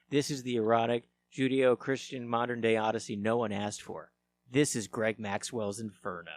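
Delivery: dramatic trailer read. Acted. Reads a dramatic summary.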